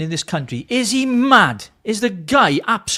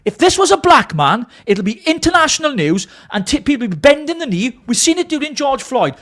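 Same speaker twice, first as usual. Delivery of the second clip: angry rant; 3 semitones higher than usual. Real, not acted. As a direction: let the fury pour out in a rising tirade. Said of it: "Sorry, guys, I'm ranting here, but I'm so angry".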